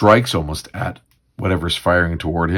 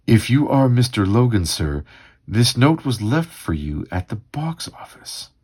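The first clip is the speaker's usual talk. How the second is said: lightly voiced polite usher; a hint of a formal usher; 5 semitones higher than usual. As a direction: read it as a courteous attendant delivering a message, lilting. Voices usher handing over note.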